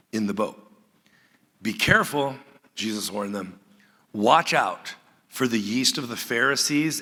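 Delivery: measured Bible reading voice; scripture reading. Acted. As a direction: read the passage out to the congregation. Reads the scripture passage aloud.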